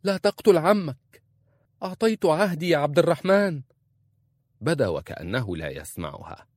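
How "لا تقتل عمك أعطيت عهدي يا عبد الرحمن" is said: much higher, loud cry; wife screaming to her husband mid-duel; powerful shout. A narrator's reading. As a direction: shout across the fight to stop him. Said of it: "صاحت بصوت قوي".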